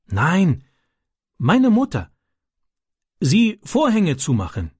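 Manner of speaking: höhere, langsame Stimme eines schüchternen ausländischen Jungen; Ram, ausländischer Junge. A narrator's reading. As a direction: ein kleiner Junge, der stockend in gebrochenem Deutsch erzählt. Ram answers Francis. (kindlich hoch und zögernd, Ram erzählt Francis von den Jungen)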